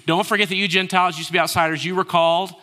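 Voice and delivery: congregation reads aloud together, loud; loud group reading. Real, not acted. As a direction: read it out loud with everyone. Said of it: "Say it with me".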